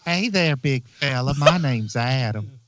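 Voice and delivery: slow, lightly voiced surly Adam; a hint of gruff host swagger; imitating Adam. The speaker mocks host Adam, slow lightly put-on greeting. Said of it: "my Adam impression".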